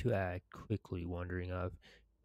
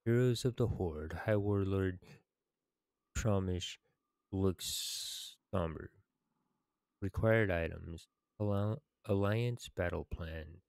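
measured narration with deliberate pauses; quest text reading. Acted. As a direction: read it out like a game's story narrator. Reads quest text aloud.

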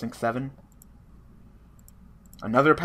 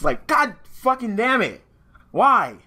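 exasperated curse; 11 semitones higher, 7 dB louder, slower than usual. Real, not acted. Cursing the bad luck.

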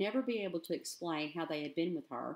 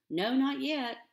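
embarrassed reply; 7 semitones higher, 6 dB louder, slower than usual. A narrator's reading. Winnie answers in sudden embarrassment.

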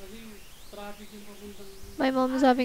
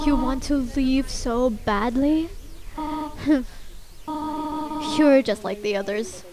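measured, solemn challenge; Toriel. Acted. Toriel challenges the child to prove strength, solemn. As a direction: guardian laying down a test, deliberately. Voices a game character's challenge.

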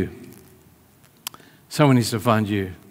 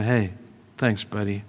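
quiet gratitude; 2 semitones lower, 5 dB quieter than usual. Retold or imitated. Jesus thanking Simon on the way, quietly grateful. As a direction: thank a friend gently, softly. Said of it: "Eyes full of gratitude to say".

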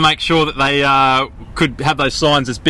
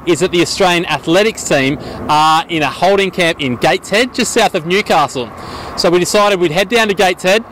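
roving reporter to camera. Acted. Reporter to camera hunting the Aussie team, upbeat field report. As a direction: present it like a light sports news segment.

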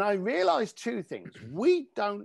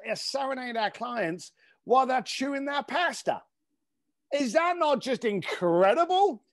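excited boasting; 5 semitones higher than usual. Retold or imitated. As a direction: brag about the maestro like a showman. Bragging about a singer to the curator.

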